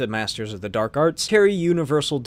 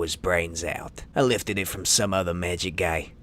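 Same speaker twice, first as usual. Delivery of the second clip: low thug voice; 7 semitones lower than usual. Acted. Brigand voice again.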